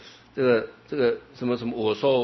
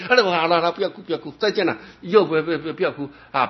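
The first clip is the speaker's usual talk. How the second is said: quick, lightly voiced master hushing the crying; calm them and hurry off; soothing farewell; 5 semitones higher, 3 dB louder, much faster than usual. (师父安慰弟子后告别，轻声劝慰)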